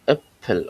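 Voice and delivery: অ্যাপেল opening on a clear 'ae' vowel; pronunciation demo. Shown as a demonstration. Teacher showing learners the German umlaut sound, pronunciation demo. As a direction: say অ্যাপেল with an open 'ae' at the start. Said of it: "এর মতো উচ্চারণ করে".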